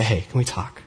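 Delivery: soft, gentle, inviting; gentle invitation. Shown as a demonstration. Pastor to hurt friend, gently asking to talk. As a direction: open the talk kindly and softly. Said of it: "I say".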